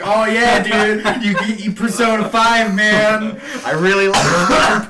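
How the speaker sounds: mock fanboy. Mocking friends who rave about their game, high gushing fan voice. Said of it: "walking around town like".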